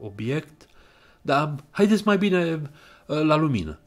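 halting, stumbling, voice cracking upward; hesitant, trembling voice; voice breaking. Acted. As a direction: nerves give the voice away mid-sentence. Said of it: "se frânse și începu să-i tremure".

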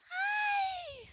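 very high sweet hello; high cutesy greeting. Real, not acted. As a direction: coo at a cute pet. Greeting cute mob.

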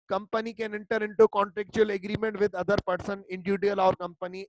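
धीमे-धीमे शब्द तोड़कर पढ़ना; slow dictation. Shown as a demonstration. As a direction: read it out slowly, word by word, for notes. Slow handout reading. (हैंडआउट से धीमी श्रुतलेख जैसी पढ़ाई)

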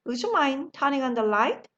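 slow, clear question to the class; slow model question. Shown as a demonstration. Teacher asking the class a slow practice question. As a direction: ask it slowly for learners. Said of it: "제가 한번".

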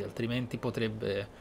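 ordinary delivery

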